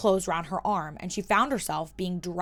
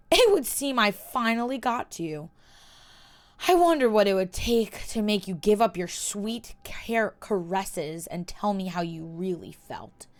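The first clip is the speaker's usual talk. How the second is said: taunting. Acted. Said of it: "His expression was taunting".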